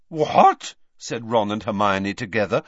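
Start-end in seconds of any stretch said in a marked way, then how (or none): 0.1-0.8 loud shocked exclamation; aghast. Acted. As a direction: blurt it out, aghast. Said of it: "looking aghast".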